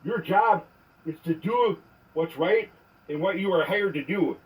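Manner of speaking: angry voicemail rant; furious message to an officer; leaving a voicemail. Real, not acted.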